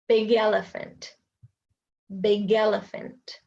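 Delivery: "big elephant" as bi-gelephant; linked phrase. Shown as a demonstration. Teacher demonstrating linking. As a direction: roll the g into elephant. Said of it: "linking demo".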